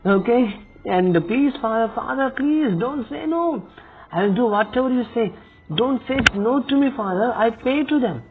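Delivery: high, whiny begging; pleading. Pretend. Begging scammer Father not to say no, high whiny plea. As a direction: beg him like a desperate child, pitched high.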